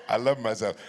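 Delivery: loud, declarative self-affirmation; proud, forceful declaration; emphatic affirmation. Acted. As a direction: belt it out over the crowd. Repeats affirmation loudly over laughter.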